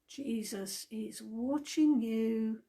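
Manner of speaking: slow, drawn-out voice from nowhere; a spooky unseen watcher, taking its time; slow mystery voice. Acted. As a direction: let it hang in the dark, slowly. Mystery voice in the dark house.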